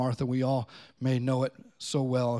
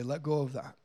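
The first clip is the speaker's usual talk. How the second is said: gentle Jesus; 5 dB quieter than usual. Acted. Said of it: "that he would say".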